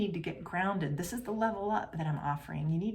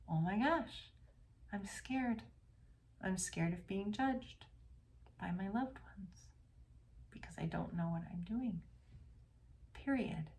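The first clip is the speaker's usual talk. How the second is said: quiet admission; 7 dB quieter than usual. Retold or imitated. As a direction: let it out gently, like finally admitting a fear. Client voicing her core fear.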